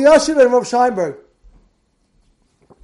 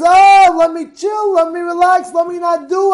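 lazy mock voice; 8 semitones higher, 5 dB louder than usual. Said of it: "A person thinks".

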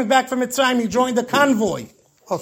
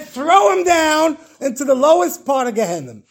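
raised, higher voice of judgment; commanding sentence; 5 semitones higher than usual. Retold or imitated. Heavenly court condemns the dead man, raised commanding cry. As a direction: proclaim the verdict with mock severity.

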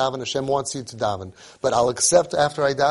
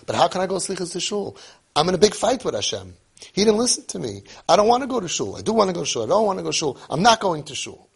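higher-pitched, torn arguing with oneself; agitated protest; 5 semitones higher, faster than usual. Retold or imitated. Man fighting with Hashem, refusing to go to shul, agitated. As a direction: protest stubbornly, wavering between won't and will. Retold argument with himself about shul.

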